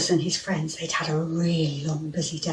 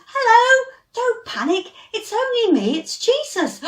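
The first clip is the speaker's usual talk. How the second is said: higher, lightly voiced calm Jesus; reassuring Jesus; 4 dB louder than usual. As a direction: gently tell them not to panic. Jesus calms friends on the water.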